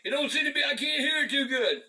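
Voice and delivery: a hint of a sly con man; sly killer's voice. Killer coaxing his victim to test the radio, lightly sly. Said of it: "He said".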